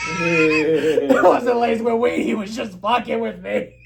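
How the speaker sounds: loud, drawn-out words through real laughter; cracking up. Real, not acted. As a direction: laugh so hard the words stretch out. Laughing at the prank reveal.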